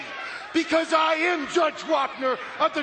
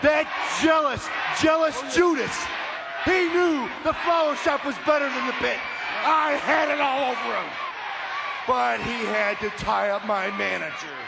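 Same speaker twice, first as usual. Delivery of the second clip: boastful promo. Acted. Wrestler cuts boastful promo.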